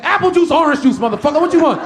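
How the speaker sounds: mock sassy attendant; sassy flight attendant. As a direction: serve drinks with attitude. Flight attendant pushing the cart.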